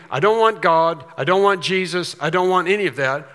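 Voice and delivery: loud, defiant imitation of unbelievers; defiant refusal. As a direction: throw it out like a stubborn rejection.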